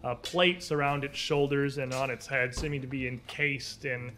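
slow dramatic scene narration; story narration. Acted. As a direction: paint the monster's leap slowly. GM describes the magma beast.

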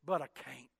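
low, soft drop; defeated admission. Retold or imitated. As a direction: collapse into a quiet admission. Acting out convert's defeated prayer.

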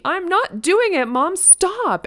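put-on a four-year-old yelling at her mom; child's mock yell. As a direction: imitate an upset little girl. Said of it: "She yelled at me".

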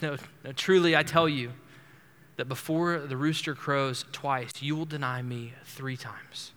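Jesus tenderly warning Peter, with pain in his voice. Retold or imitated. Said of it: "I imagine he says that tenderly, with great pain in his voice".

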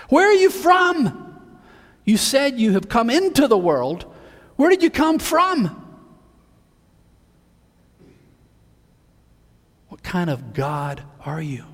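frightened ruler begging for an answer; scared Pilate. Acted. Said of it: "he's scared".

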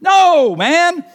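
high, loud yelled objection; yelling. Acted. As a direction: yell it over helicopter noise. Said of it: "You're yelling!".

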